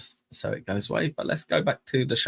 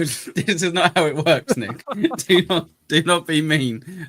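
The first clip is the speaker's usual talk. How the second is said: mock scolding; 6 semitones higher, 6 dB louder than usual. Playfully scolding Nick on stream.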